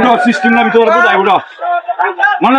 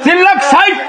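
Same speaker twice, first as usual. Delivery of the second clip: auctioneer. Acted. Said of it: "গাড়ি বিক্রি হবে নিলামে".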